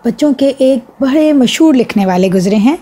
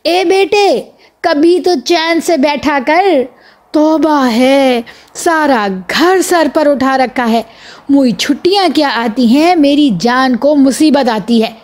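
mock scolding shriek; 3 semitones higher than usual. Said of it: "امی جان چیخ کر بولیں".

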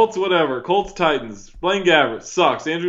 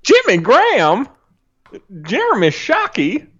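badly faked Southern twang; bad Doctor Phil; 6 semitones higher than usual. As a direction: announce names in a hammy Southern accent. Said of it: "bad Doctor Phil impersonation".

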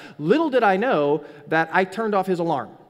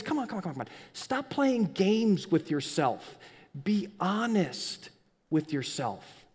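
coaxing plea; 3 dB quieter, slower than usual. Pretend.

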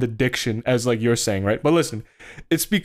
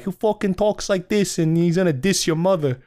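put-on Jersey accent; 4 semitones higher than usual. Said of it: "when you weren't doing the voice".

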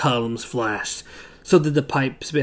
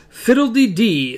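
Scarlett O'Hara; 6 semitones higher, 3 dB louder than usual. Acted. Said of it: "said Scarlet".

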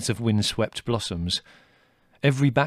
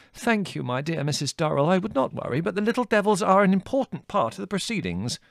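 put-on high, fussy old colonel, flustered; fretting old officer hunting lost scouts; agitated colonel; 9 semitones higher, 4 dB louder than usual. A narrator's reading. Colonel Velvet replying.

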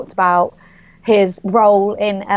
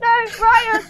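higher voiced retelling of the actor; imitating actor; 12 semitones higher than usual. Actor redirecting a fan to his colleague, lightly imitated higher. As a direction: lightly imitate him pointing her out. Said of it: "He went".

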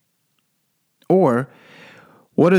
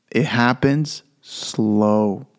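drawn out; 2 semitones lower, much slower than usual. Real, not acted. Stretching the word slow.

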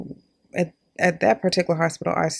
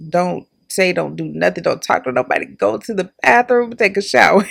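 mock-urgent list of orders, building louder; self-command; 4 dB louder than usual. Essential worker recalling orders to herself after shifts, mock-urgent. Reciting her strict homecoming routine.

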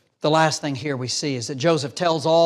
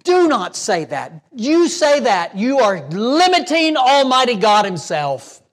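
rising, emphatic sermon rebuke; preaching at full force; 5 semitones higher, 5 dB louder than usual. Acted. Preacher warning the congregation not to give up on people, forceful. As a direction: press the point hard from the pulpit.

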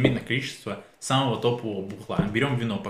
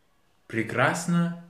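drawn-out high slow tipsy prekrasno; getting drunker; 8 semitones higher, 3 dB louder, much slower than usual. Pretend. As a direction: stretch прекрасно slow and high, slurring. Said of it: "язык заплетается".

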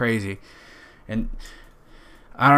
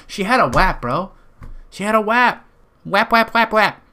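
high, loud playful chant; hammed-up excitement, pitched way up; mock hype; 9 semitones higher, 4 dB louder than usual. Comedian riffing on his new slang to a bro, mock hype.

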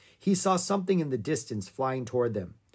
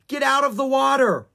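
high, loud shouted order; yelled command; 12 semitones higher, 9 dB louder than usual. A narrator's reading. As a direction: yell to get her moving. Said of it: "Annie yelled".

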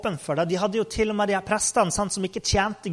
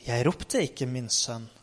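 rolig avvisning; 6 semitones lower, 6 dB quieter than usual. Acted. Eli beroliger gutten.

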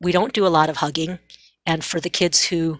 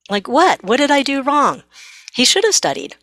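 baffled mom; 7 semitones higher than usual. Retold or imitated. Mom after teen slams the door, indignant bafflement. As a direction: play the mom genuinely puzzled, up high. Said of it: "now the mom is like".

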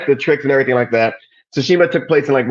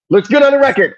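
pitched way up, sing-song; high mock voice; 12 semitones higher, 4 dB louder than usual. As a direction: echo it high and teasing. Repeated catchphrase, pitch jumps high.

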